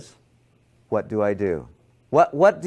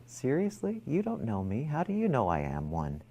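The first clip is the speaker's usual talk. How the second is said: soft reply; 9 dB quieter than usual. Retold or imitated. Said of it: "So I turned to him and I went".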